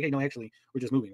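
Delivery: easy, relaxed and soft; calm correction. Retold or imitated. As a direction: shrug it off gently. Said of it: "He's just like".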